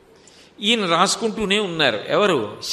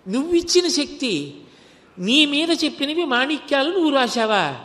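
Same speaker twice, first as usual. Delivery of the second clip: the saint's ecstatic outcry to Shiva; overwhelmed with joy; 4 semitones higher than usual. Acted. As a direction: voice lifted by disbelieving joy. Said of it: "ఆనందం ఆగలేదు ఆయనకి, ఉద్వేగం పొందేశాడు".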